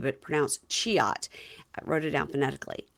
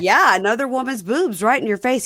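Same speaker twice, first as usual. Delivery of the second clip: louder, higher mock emphasis; teasing wife; 6 semitones higher, 7 dB louder than usual. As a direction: spell it out to a naive man. Wife explaining to husband.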